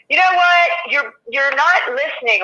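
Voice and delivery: wife snapping at her overworked husband; mock angry wife. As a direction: snap at him for not listening. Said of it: "the bitch tone or the angry tone".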